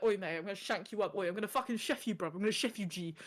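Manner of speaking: British chav banter, lightly played; mock threats in British chav slang; chav talk. Two friends play-threatening each other, chav accent. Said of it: "We start speaking, like, chavs".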